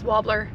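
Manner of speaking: wobbler, said "wah-bler" with no first R. Retold or imitated. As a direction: copy his "wobbler", R left out. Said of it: "So he says wobbler".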